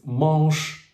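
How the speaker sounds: MANCHE ending in an unvoiced SH sound; drawn-out French "manche", closing on SH. Shown as a demonstration. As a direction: slowly say "manche" with a clear SH. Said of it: "as in sleeve".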